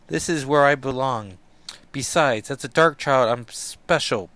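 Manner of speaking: put-on a defiant young dark queen; proud dark ruler. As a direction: claim your power. Illyana on throne.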